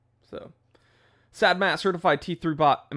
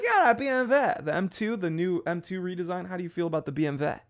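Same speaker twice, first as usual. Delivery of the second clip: mock German speaker; 5 semitones higher than usual. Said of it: "Be like".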